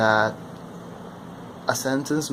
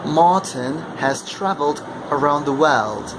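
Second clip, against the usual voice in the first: British read, R softened and dropped; British accent; 2 semitones higher than usual. Shown as a demonstration. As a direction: say it the British way, without the R. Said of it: "imitate the British accent with the same sentence".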